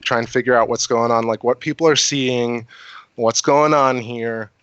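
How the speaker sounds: tipsy. Real, not acted. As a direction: talk like you're a little tipsy. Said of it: "Sorry, I'm a little tipsy".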